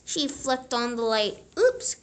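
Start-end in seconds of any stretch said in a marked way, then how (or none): 1.6-2.0 caught out. A narrator's reading. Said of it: "cried Froggy".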